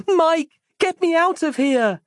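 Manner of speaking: very high, very loud scream of a name; panicked full-voiced cry for help; yelling. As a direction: shout desperately into the cloud. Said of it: "she yelled aloud".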